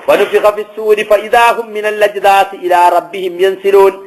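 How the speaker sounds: level, sustained intoning; Quran recitation. Acted. Preacher recites the cry of the risen, intoned. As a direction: intone verse and translation in one chanting cadence.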